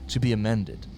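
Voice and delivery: measured, mock-solemn accent; menacing put-on accent. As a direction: read it like a sinister proclamation. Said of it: "I don't know why I'm going with this fucking accent".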